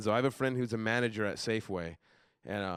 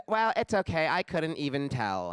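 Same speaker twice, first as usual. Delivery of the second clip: clueless chick; 3 semitones higher, slower than usual. Retold or imitated. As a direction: imitate her oblivious reassurance. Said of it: "And then she says".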